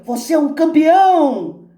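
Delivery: loud, high cheering holler; big, high, falling call; man's shout. A narrator's reading. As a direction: yell praise across the mountains. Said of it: "De novo o homem grita".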